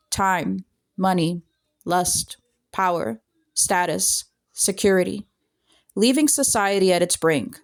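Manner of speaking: measured poetry reading with pauses between lines; poem recitation. Real, not acted. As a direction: read it out as a poem, line by line. Recites own written poem.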